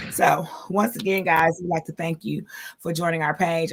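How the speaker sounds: winded, catching her breath. Real, not acted. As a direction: talk while still breathless. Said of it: "I'm out of breath".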